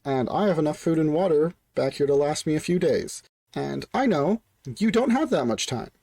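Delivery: mildly confident negotiator; Patches, confident announcement. Acted. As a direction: announce it assuredly from behind cover. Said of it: "Patches confidently announces from behind the shield".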